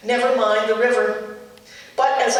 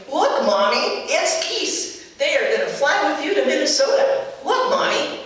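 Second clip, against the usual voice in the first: put-on high, eager little girl pointing at geese; imitating a thrilled kid calling to her mom; excited child; 5 semitones higher than usual. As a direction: daughter excitedly showing mommy the geese, mildly high and eager. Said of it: "got really excited and exclaimed".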